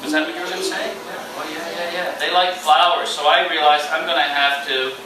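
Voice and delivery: on stage. Acted. Storyteller performing for children.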